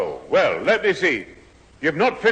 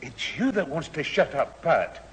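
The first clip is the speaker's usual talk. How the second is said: hushed row; 3 semitones lower, 6 dB quieter than usual. Acted. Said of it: "why are we whispering?".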